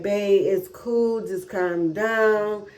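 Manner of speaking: slow, soothing and gentle; calm reassurance. Retold or imitated. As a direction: talk someone down slowly. Husband calms her breakdown.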